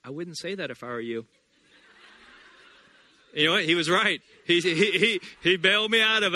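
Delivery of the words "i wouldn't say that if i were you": soft, quiet warning; a gentle inner voice warning. Retold or imitated. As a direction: hush it like a conscience. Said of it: "I heard that voice".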